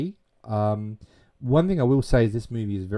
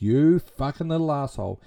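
higher, mildly indignant mock outburst; retold angry insult; 5 semitones higher than usual. Teacher turns on treacherous pupil, imitated anger. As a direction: spit the insult out as a retelling.

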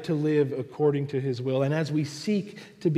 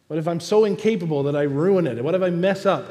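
louder, rapid anxious questions; worried believer; 4 semitones higher, 6 dB louder, faster than usual. Acted. Believer afraid of ruining it, acted hurried worry. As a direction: rush out the doubts, a bit pushed. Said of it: "We come and we say".

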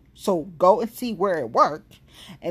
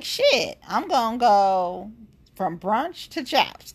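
excited; 4 semitones higher, slower than usual. Retold or imitated. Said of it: "So I'm like".

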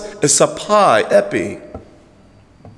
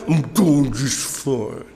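slow, curt grumble; grumpy reply; 2 semitones lower, 4 dB quieter, much slower than usual. Retold or imitated. A sour churchgoer answers a greeting slowly and curtly. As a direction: answer like you don't mean it.

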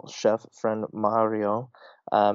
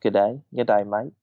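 put-on horrible Australian accent. Host imitating co-host's Australian greeting, badly. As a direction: lay on a cartoon Australian twang. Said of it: "My horrible accent".

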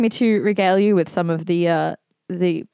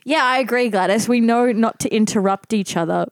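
put-on old lady voice. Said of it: "imitating an old lady".

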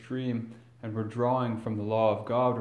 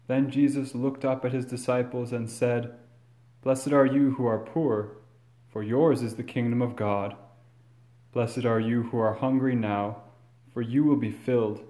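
measured, solemn proclamation; formal gospel reading. Acted. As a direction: read it like scripture at Mass.

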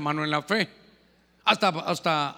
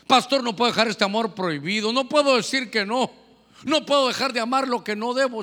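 insistent, louder imitation of a congregant; congregant's plea; 3 semitones higher, 4 dB louder than usual. Congregant confesses forbidden love to the pastor, mock pleading.

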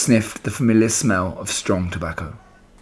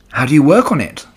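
begging; 5 semitones higher, 4 dB louder than usual. Acted. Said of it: "begged Wilbur".

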